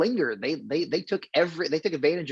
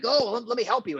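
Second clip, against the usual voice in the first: lightly acted, higher-pitched eager helper; mock helpful offer; 9 semitones higher than usual. Host retelling Glitz's offer on the cliff, lightly acted helpfulness. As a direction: imitate someone chiming in to help.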